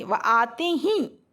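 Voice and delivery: आते ही slowed right down, weight on ही; stress on ही. Shown as a demonstration. Teacher illustrating the particle for students, stress on ही. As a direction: draw out आते ही and press on ही. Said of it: "जिस शब्द में जोर देके किसी वाक्य को बोला जाए".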